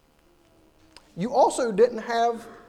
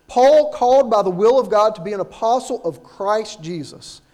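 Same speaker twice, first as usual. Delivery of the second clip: louder, measured Bible reading; scripture reading; 3 dB louder than usual. Acted. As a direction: read the passage with weight to the church. Reads scripture aloud.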